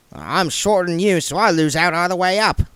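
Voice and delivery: the dwarf hurrying William away from the king; Goodmountain's voice. Acted. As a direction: gush thanks while backing out the door.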